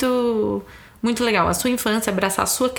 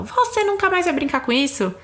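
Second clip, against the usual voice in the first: a parent's mild mock scolding, pitched higher; stern punishing threat; 3 semitones higher than usual. Mother scolding a child who left her toys out, mildly mock stern. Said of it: "Isso é um castigo".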